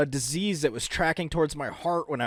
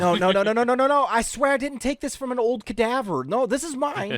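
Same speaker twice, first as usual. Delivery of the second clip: panicky denial; 4 semitones higher than usual. Acted.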